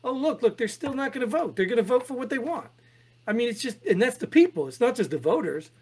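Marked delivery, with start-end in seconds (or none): 0.0-2.7 higher, laughing mock plea; mocking exasperation. Mocking voters who ignore every piece of evidence, laughing high mock voice. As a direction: laugh through a sarcastic "look, look". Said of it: "And you're just like".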